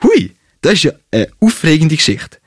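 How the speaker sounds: hammed-up enthusiasm; full of enthusiasm. A narrator's reading. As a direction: gush about the story with mock wonder. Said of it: "sag ich voller Begeisterung".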